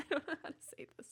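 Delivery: whispered, a little sheepish; embarrassed whisper. Real, not acted. Streamer whispering a confession to chat, sheepish whisper. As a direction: let it slip out as a whisper.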